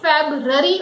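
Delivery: FEBRUARY as FAB-ruh-ree, missing the U; wrong pronunciation. Shown as a demonstration. Teacher quoting people's wrong pronunciation. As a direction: drop the "ryoo" from FEBRUARY. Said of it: "Many people say it February also".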